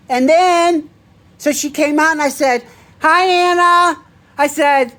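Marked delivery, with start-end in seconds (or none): 3.0-4.0 cheery greeting. Retold or imitated. Greeting her at the door.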